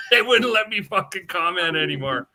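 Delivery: half-laughing indignation, voice up; real outburst about being muted; indignant shout. Real, not acted.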